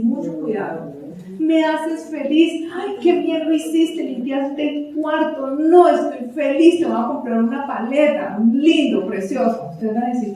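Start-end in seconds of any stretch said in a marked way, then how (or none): 1.4-9.7 put-on high, gushing mom praising her child; gushing praise. Parent overpraising a child, high and gushing. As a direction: lay the praise on thick and sweet. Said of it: "Es muy fi-, diferente decirlo".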